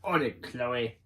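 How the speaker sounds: a hint of raspy British for Thunderbird; quick raspy British reply, lightly done; light British accent with a rasp. Shown as a demonstration. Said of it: "just put a British voice".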